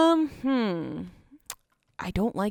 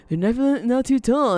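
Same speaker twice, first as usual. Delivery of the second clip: laughing; 4 semitones higher, 6 dB louder, faster than usual. Real, not acted. Laughs at building too tall.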